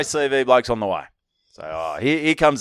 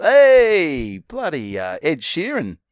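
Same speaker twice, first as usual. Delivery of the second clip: imitating a celebrity; 5 semitones higher, slower than usual. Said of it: "get someone famous to say".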